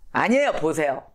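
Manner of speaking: usual speaking voice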